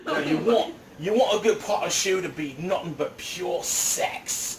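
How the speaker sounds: lightly put-on Irish accent, slowed and laughing; a hint of Irish, drawn out with a laugh; mock Irish accent. To the kitchen crew, a joking mock Irish accent. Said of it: "That was my Irish".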